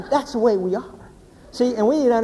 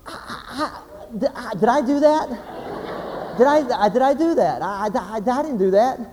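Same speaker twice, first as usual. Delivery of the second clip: flustered stammering. Acted. Panicked husband wonders if at fault.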